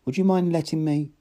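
high, ingratiating plea with a smile; smiling, placating request; propitiating smile. A narrator's reading. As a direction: coax him sweetly. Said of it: "smiling propitiatingly".

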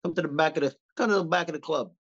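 lightly voiced Italian mobster from Jersey; a hint of a Jersey Italian tough guy, leaning in; Italian accent. Telling a Jersey stranger to come to the back of the club, in a light Italian mobster accent. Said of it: "start speaking Italian to somebody".

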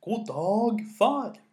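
loud call to someone who hasn't heard. A narrator's reading. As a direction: raise your voice to get a response. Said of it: "Han snakket litt høyere og sa".

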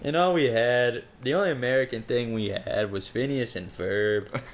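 put-on drifting into a Minnesota accent; light Midwestern Minnesota vowels. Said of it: "now you sound like you're from Minnesota".

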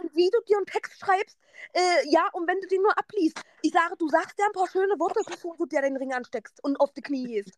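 high-pitched retold instructions; telling-off. Friend retelling her orders to the groom, telling-off. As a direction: drill him on what to do, pitched high. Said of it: "noch eine Ansage gemacht".

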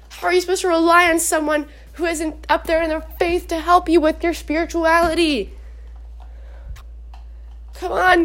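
almost yelling. Real, not acted. Speaker urging viewers about faith, insistent near-yell. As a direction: push it at them without truly yelling. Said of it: "I like yelling at you".

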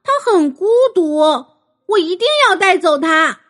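put-on pleading girl. Aria pleading for parrot.

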